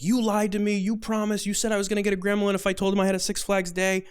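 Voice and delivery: high, indignant mock outburst; pissed-off teen. Teen accusing his counselor of lying, pissed off. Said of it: "and he's pissed".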